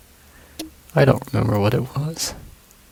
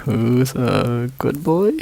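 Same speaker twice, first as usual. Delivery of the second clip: put-on doggy baby talk; 4 dB louder, much slower than usual. Talking to the dog.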